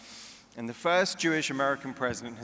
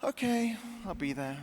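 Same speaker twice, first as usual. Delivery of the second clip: Jewish mother; 9 semitones higher than usual. Retold or imitated. Mother voiced in a joke.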